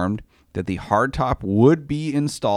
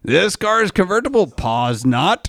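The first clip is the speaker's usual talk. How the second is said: high mock Borat voice with a spoken pause; Borat accent; 8 semitones higher than usual. Retelling the buyer's complaint as Borat, high and mocking. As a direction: Borat delivery, then a beat before not. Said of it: "I have to assume you're Borat".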